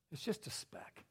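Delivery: whispered aside. Real, not acted. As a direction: breathe it out with no voice. Preacher drops to aside.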